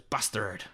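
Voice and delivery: "Bastard" said in dad's odd way; dad's odd pronunciation. Retold or imitated. Showing how dad says it, odd "Bastard". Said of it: "he says bastard weird".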